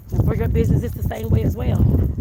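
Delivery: out of breath while walking. Real, not acted. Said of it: "I'm out of breath".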